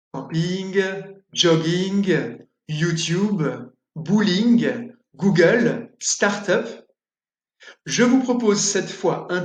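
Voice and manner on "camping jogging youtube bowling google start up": anglicisms said the French way, camping as "campine"; French vowels and stress on the last syllable; French-style pronunciation. Shown as a demonstration. Teacher demonstrating French pronunciation of English words. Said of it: "Comment prononcer les mots d'origine anglaise à la française?".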